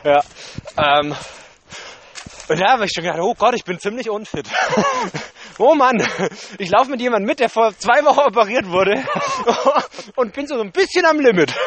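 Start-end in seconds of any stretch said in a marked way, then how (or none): 4.5-11.5 lachend erzählt, höher. Real, not acted. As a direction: mit Lachen in der Stimme. Laughs at own unfitness. (über sich selbst lachend)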